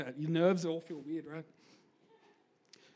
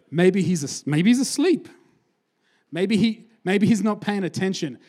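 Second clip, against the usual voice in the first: mocking taunt; 2 semitones higher, 7 dB louder than usual. Elijah taunting the prophets over their silent god, loud mocking jeer. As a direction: jeer at them like a hustler. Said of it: "Maybe you should say it a bit louder".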